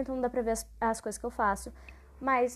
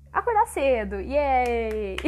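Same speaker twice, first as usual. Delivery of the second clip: loud hammed-up cheer; loud pretend celebration; mock cheer; 8 dB louder, much slower than usual. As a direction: cheer with put-on enthusiasm, drawing out the yay. Mock cheering at waking early.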